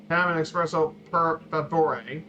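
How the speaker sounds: "per favore" slow, rising at the end; slow polite ask. Shown as a demonstration. Presenter showing the class how to order an espresso.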